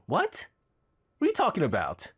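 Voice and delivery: sudden disbelieving squeak; baffled what. Real, not acted. Baffled by the singing.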